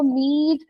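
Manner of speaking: मीट with the ee held long; long vowel. Shown as a demonstration. Teacher showing a long word, मीट with long ee. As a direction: lengthen the ee of मीट. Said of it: "long करके पढ़ रही हूँ".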